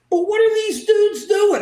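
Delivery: loud, high indignant outburst. Real, not acted. Guest to Joe, railing at idle lawmakers, loud. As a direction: demand an answer, fired up.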